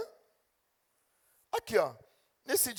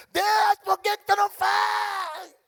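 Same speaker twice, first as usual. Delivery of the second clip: high, loud, slow complaining cry; mock shouted complaint to God; whiny plea to God; 13 semitones higher, 10 dB louder, slower than usual. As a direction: wail it up at God like a spoiled child. Complaining believer voiced to God.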